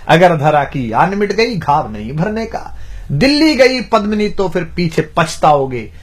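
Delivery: measured declamation of heroic verse; rhythmic Hindi verse recital; poem recitation. Acted. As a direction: recite like a poet, phrase by phrase.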